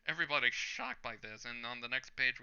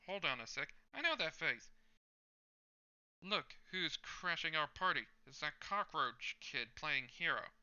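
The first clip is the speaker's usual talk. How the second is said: higher, mocking street thug; sneering thug; 5 semitones higher than usual. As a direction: taunt him like a cocky bully. Thug taunting the hero.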